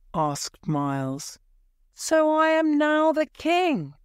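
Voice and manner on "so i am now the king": high, loud wonder; dawning realization. A narrator's reading. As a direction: let it sink in aloud. Edward realizes he is king.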